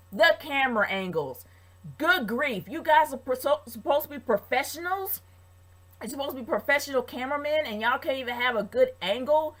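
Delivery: talking while chewing gum; words round a wad of gum. Real, not acted. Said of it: "I'm chewing gum right now".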